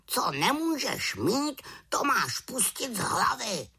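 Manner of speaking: high wise raven voice; advising raven. A narrator's reading. Raven advising the witch, high voice. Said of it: "krákal havran".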